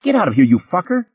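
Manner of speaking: high, furious scream. Acted. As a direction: scream at the cop in rage.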